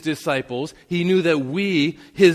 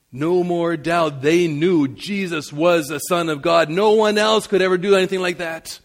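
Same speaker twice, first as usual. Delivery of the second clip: louder, emphatic; 2 semitones higher, 5 dB louder than usual. Acted. Repeat, louder and slower.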